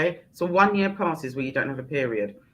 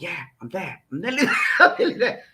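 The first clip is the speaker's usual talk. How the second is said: laughing self-quote; faster than usual. Retold or imitated. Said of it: "I was like".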